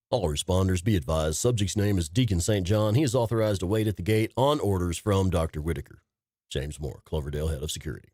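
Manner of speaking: radio dispatch voice; police radio. Pretend. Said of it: "I'm on the radio".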